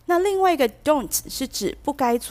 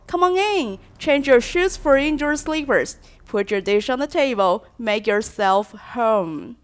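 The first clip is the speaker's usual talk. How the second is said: welcoming host; 2 semitones higher, 3 dB louder than usual. Shown as a demonstration. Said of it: "你可以这样说".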